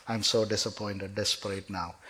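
low, soft, deflated; disappointed. Retold or imitated. Man whose excitement is gone, deflated and low.

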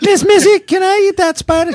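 high, pleading servant voice; Renfield voice. Acted. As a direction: beg like a creepy bug-eating servant.

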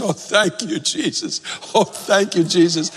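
high, teary retelling of a mother's relief; tearful thanks. Retold or imitated. Pastor retelling the young mother's crying thanks, tearful. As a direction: voice her thanks as if close to tears. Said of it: "she bursts out crying".

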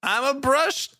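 high, slow goofy cartoon voice; silly high voice. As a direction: play a dopey talking toothbrush. Goofy line voicing the brush.

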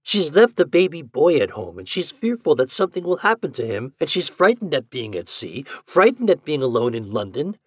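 high-pitched, earnest exclamations; exclaiming. A narrator's reading. Doctor describing a frightened patient to Ford, exclaiming. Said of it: "he exclaimed".

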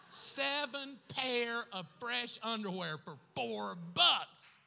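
comic outrage at prices; mock indignation. Real, not acted. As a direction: punch the price like a punchline.

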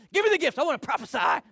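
high, loud eager cry of "Give me the gifts."; eager demand. Retold or imitated. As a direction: beg for "Give me the gifts." at the peak of excitement. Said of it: "I like that fire".

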